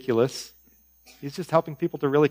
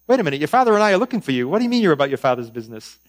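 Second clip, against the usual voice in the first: confused parent; 4 semitones higher, 6 dB louder, faster than usual. Acted. Parents' confused reaction voiced.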